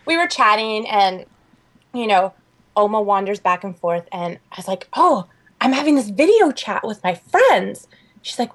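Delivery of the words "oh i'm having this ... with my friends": higher, slower retold explanation; patient, lifted sing-out; explaining to grandma. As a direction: spell it out slowly for grandma. Explaining video chat to grandmother.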